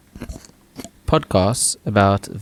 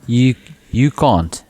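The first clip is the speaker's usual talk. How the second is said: South African accent; 4 semitones higher, 5 dB louder, much slower than usual. Shown as a demonstration. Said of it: "sexy South African accent".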